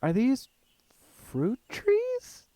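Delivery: high, breathless whispered wonder; hushed disbelief as the words fade out; amazed. Acted. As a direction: narrator amazed, voice falling to a whisper. Amazed at trees in forest.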